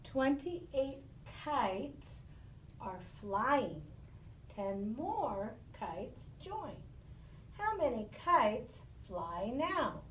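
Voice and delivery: slow, deliberate reading of the problem; slow read-aloud. Shown as a demonstration. Teacher reading a word problem slowly to the class. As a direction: read each phrase slowly, pausing between them. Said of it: "I'm gonna read it first".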